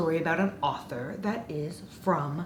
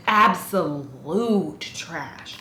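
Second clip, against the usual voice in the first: very slow, weighted dismissal; slow, flat, scornful verdict; disgusted verdict; 3 semitones lower, much slower than usual. Real, not acted. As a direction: drag out the contempt. Verdict on the book.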